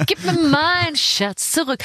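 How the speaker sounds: high, slow creepy creature hiss on the title; Gollum voice. Pretend. Host voicing the game title as a creature, high and slow. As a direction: croon it like a creature clutching its treasure.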